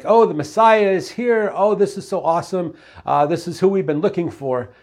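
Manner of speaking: imagined gushing, starting high and easing off; mock excitement. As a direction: play their imagined delight, starting high. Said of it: "they'd be excited about this".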